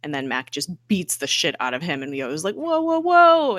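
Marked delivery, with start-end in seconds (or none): 2.5-3.6 high, drawn-out whoas; mock-alarmed, stretched-out protest; alarmed intervention. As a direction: call a halt, rising high. Retold attempt to stop a beating.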